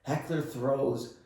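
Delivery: helpless real laughter squeezing the words; cracking up. Real, not acted. Telling how the heckler hit Hakeem, cracking up. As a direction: voice climbing high as laughter takes over.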